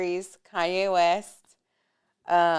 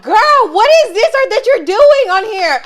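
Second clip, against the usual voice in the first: raised, higher mock scolding of a friend; half-laughing disbelief, louder and higher; retold call-out; 12 semitones higher, 10 dB louder than usual. Retelling confronting her friend.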